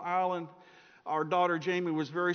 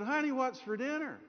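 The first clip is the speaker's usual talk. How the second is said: higher, sing-out question; husband calling to wife; 7 semitones higher than usual. Acted. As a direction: call her sweetly with a raised pitch. Husband asks right behind her.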